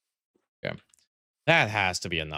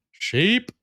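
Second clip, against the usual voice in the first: excited call; 12 semitones higher, 6 dB louder than usual. Real, not acted. Spotting sheep, calling out.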